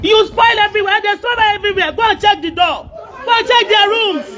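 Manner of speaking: indignant, insistent outburst; angry accusation. Real, not acted. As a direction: accuse them heatedly. Real quarrel over damaged house.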